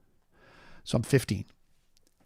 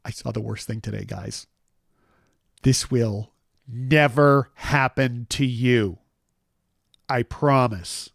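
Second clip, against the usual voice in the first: promise to toys; 2 semitones lower, slower than usual. Retold or imitated. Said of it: "I looked at all my Star Wars toys and I'm like".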